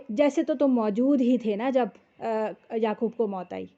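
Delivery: lightly challenging rhetorical question, leaning on موجود; mildly pointed questioning tone. Shown as a demonstration. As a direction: put it as a pointed question, as if doubting they were there. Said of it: "ہمارا سوالیہ ہی انداز ہے نا".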